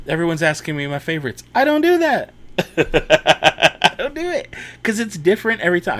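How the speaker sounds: high, loud comic outburst; mock exasperation. Streamer refusing favorite questions from viewers, mock-exasperated. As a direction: protest in an exaggerated high voice, breaking into laughter.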